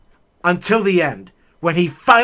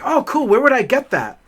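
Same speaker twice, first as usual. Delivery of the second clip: eager; 6 semitones higher than usual. Retold or imitated. Eager kid asking teacher.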